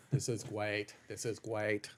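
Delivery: badly faked German accent, quiet; a half-hearted German accent; mock German accent, barely there. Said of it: "That's how I practice my German accent".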